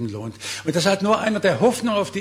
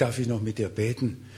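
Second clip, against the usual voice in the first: gentle offer; 3 semitones lower, 4 dB quieter than usual. Pretend. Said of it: "wenn man ihnen sagt".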